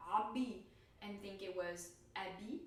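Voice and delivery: abi with throaty ayn then plain abi; first abi with ayn, second plain; ayn versus a contrast. Shown as a demonstration. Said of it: "I would hear".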